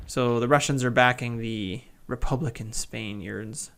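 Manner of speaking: lightly southern drawled Spaniards; a hint of a Southern US accent; casual southern lilt on "Spaniards"; southern twang. Shown as a demonstration. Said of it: "I don't know why I went southern there".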